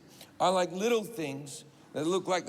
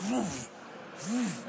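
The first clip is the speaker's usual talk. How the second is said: imitated whoosh of thrown bottles; 3 dB quieter than usual. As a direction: make short airy whooshes of things flying past. Imitating bottles flying past him.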